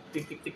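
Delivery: quick "tik-tik-tik" of repeated test points; light imitated machine ticks; imitated ticking. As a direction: tick off evenly spaced points by mouth. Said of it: "begitu ya?".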